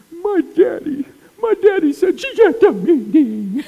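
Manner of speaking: put-on squeaky high kid voice echoing dad; small child's voice. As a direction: mimic a toddler repeating his father's words. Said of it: "he was going".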